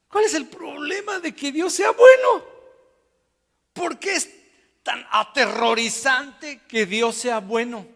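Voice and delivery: loud, high-pitched acted outcry; incredulous protest. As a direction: demand it like a baffled, protesting crowd. Asombro actuado de los oyentes. (protesta incrédula, casi a gritos)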